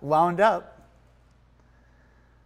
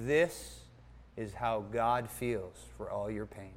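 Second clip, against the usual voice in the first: soft, lowered, grave delivery; retold tearful solemnity; 6 semitones lower, 8 dB quieter, slower than usual. Pastor tells him through tears, retold in hushed solemnity. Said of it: "looks up at me through those tears".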